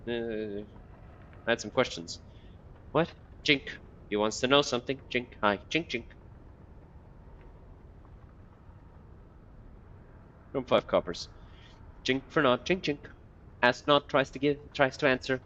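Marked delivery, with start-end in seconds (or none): 3.4-15.4 higher, broken-grammar beggar mumbling; lightly voiced muttering old beggar; twitchy beggar. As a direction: mutter like a half-mad corpse picker.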